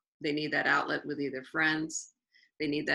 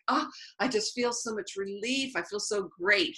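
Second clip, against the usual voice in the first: euphoric; 5 semitones higher than usual. Retold or imitated. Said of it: "He was euphoric".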